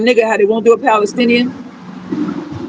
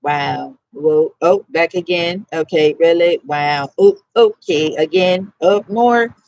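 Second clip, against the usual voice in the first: unimpressed mockery; 4 semitones lower, slower than usual. Leaning on the wall watching them, in low sarcastic asides. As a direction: mutter unimpressed as they keep coming back.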